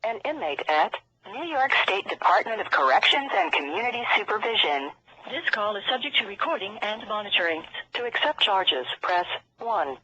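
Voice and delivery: payphone call. Real, not acted. Automated prison phone system.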